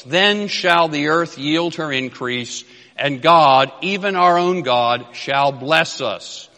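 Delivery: slow, measured reading of the verse, God lifted; solemn scripture reading. Acted. Preacher reads the verse to the congregation, slow and solemn. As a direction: read the King James words with reverence.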